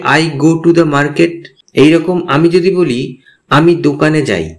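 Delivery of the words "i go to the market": very slow, each word spaced out for learners; teacher says it slowly so students can copy; slow English model sentence. Shown as a demonstration. Teacher models the English slowly for beginners. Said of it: "তাহলে হবে".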